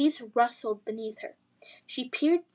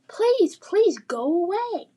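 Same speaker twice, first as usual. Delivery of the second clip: high, loud, slow pleading cry; 7 semitones higher, 6 dB louder, slower than usual. Acted. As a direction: beg desperately, terrified. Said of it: "Lily cried".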